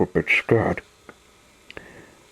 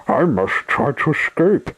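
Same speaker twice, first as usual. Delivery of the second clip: higher-pitched, urgent resolve; determined captive; 7 semitones higher than usual. A narrator's reading. Sunshine alone in the shed plans escape, urgently. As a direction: urge yourself on, pitch raised.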